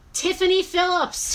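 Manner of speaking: high, loud, stretched-out name call; winner announcement. Real, not acted. Seller announces the wheel winner to live viewers, loud call. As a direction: call the winner out to the whole crowd.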